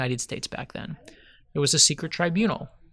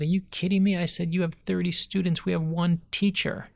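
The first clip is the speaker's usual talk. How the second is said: higher-pitched retold disbelief; incredulous protest; 5 semitones higher than usual. Former pupil to teacher who wants to retire, incredulous protest. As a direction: protest as if reassuring someone who doubts their worth.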